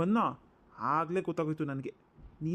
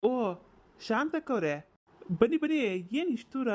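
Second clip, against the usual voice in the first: excited welcome; 5 semitones higher than usual. Acted. Husband welcomes the visiting aunt into the house, high and eager. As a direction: greet her warmly and eagerly.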